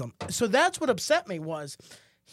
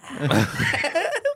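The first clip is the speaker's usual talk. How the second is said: Undertaker laugh; 7 semitones higher, 3 dB louder than usual. Retold or imitated. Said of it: "like The Undertaker".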